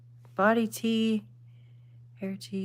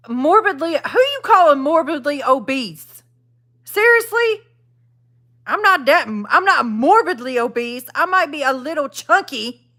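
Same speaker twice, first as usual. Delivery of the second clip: indignant; 4 semitones higher than usual. Real, not acted. Streamer objects to a chat comment calling her obese, indignant. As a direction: push back hard at being insulted.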